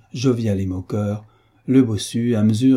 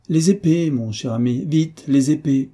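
eager call; 6 semitones higher, 3 dB louder than usual. Acted. Marquis calls for swords eagerly.

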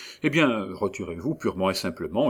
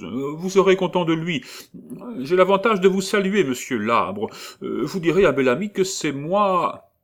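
much higher and louder notary calling after him; notary leaning over the railing calling to Paul, higher and louder; calling down the stairs; 9 semitones higher, 6 dB louder than usual. A narrator's reading. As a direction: call down the stairwell to the departing client.

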